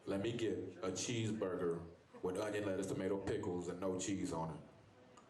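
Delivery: drawn-out, deliberate "and no cheese on it"; slow careful order. Shown as a demonstration. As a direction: spell out "no cheese" slowly. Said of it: "scratch that last burger".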